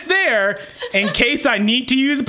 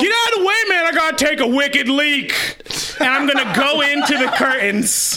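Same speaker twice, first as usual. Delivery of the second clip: bro voice; 2 semitones higher than usual. Pretend. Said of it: "Is this your bro voice".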